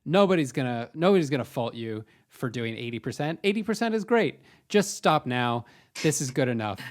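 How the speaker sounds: tempting inner voice. Retold or imitated. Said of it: "a clear voice in the back of my head".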